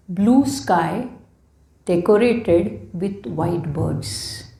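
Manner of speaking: slow, measured poetry reading with pauses; poem recital. Acted. Poet sharing offerings to Lord Ganesha, slow recital. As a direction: recite devotional verse slowly, phrase by phrase. Reads own devotional poems aloud.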